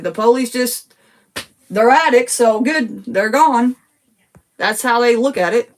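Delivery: high-pitched agitated venting; pouring out real frustration, voice up high; worked up. Real, not acted. Daughter upset about police, worked up and agitated. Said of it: "Sorry, y'all, I got worked up".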